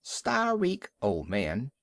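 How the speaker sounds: high jeering cry; a mob of birds jeering; yelling gulls. A narrator's reading. Seabirds mocking the old walrus, high yelling. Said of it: "yelling and screaming".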